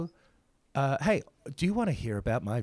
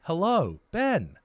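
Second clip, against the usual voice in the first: robot voice; 4 semitones higher, 3 dB louder than usual. Acted. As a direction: speak like a stilted AI robot. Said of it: "the speaker doing a robot voice".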